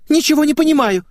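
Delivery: put-on very high, loud girlish wail; squealed protest. A narrator's reading. Girl denies everything to her friend, loud squeal. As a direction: shriek your confusion. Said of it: "взвизгнула её собеседница".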